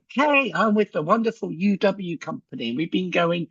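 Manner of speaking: mock the bright canned sales patter; overly cheery doorstep pitch; cheesy salesman pitch. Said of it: "I think we go".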